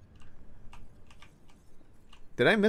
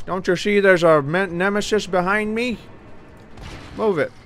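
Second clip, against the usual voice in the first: exasperated yell; 5 semitones higher, 4 dB louder than usual. Real, not acted. Shouting at in-game blocker.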